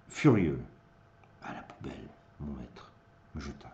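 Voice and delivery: animated verse storytelling with sudden swells; dramatic poem recitation. Acted. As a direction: recite the tale theatrically, dropping away at the end.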